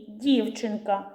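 «Дівчинка» slowly, stress on і in the first syllable; stressed first vowel. Shown as a demonstration. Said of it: "покличте дівчинку". (наголос на «і» в слові «Дівчинка»)

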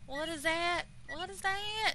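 loud, high, alarmed; frightened shout. Real, not acted. Streamer panicking at the beeping device, scared shout. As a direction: demand it in a panic.

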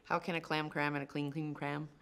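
rushed fast reading; fast tongue twister. Shown as a demonstration. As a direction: race through the tongue twister. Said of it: "read this three times fast".

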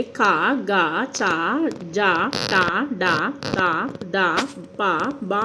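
క through బ as easy, unaspirated syllables, spaced apart; light unaspirated consonants. Shown as a demonstration. Teacher showing pupils the easy letters, క and గ said lightly, unaspirated. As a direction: say క, గ, చ lightly, without a puff of air. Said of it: "తేలికగా పలుకుతున్నాం".

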